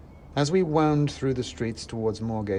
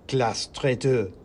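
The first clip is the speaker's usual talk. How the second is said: slow, louder squeaky accusation; accusing mouse; 4 dB louder, slower than usual. Acted. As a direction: denounce him from the taxi. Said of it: "shouted the mouse in the taxi".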